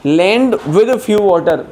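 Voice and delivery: reads the English example very slowly; slow dictation. Shown as a demonstration. Teacher to Hindi-speaking learners, slow dictation pace. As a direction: give every word its own space.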